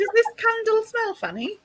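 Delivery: put-on posh accent. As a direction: say funny the posh way. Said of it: "When you say funny like that".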